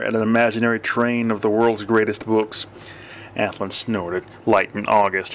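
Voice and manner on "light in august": a touch of scorn, lightly dismissive; scornful repeat. Acted. Athlon mocks the friend's book choice, lightly scornful. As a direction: echo the title with mild disdain. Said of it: "he repeated scornfully".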